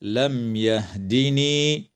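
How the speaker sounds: لم يهدني with the mim of لم sounded fully before the ي; slow careful لم يهدني; clear mim. Shown as a demonstration. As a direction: close the lips clearly on the م of لم. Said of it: "وتظهر الميم الساكنة عند الياء".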